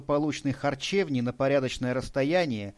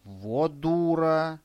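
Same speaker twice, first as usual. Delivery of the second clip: put-on boy's blunt verdict; 3 semitones higher, much slower than usual. A narrator's reading.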